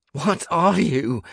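high, loud, drawn-out demand; crying out. A narrator's reading. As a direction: call it out slowly at the thing attacking you. Shaken narrator questions the quaking room.

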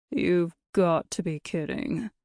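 slow, disbelieving character voice; incredulous driver. A narrator's reading. Bus driver to guide about the detour, incredulous. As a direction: drag it out in disbelief.

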